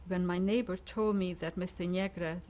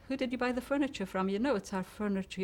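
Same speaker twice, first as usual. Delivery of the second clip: higher, louder, quick indignant challenge; indignant retort; 5 semitones higher, 3 dB louder, faster than usual. Retold or imitated. Retelling how she confronted the neighbor who took her furniture, indignant. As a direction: throw the question back at him, fast and high.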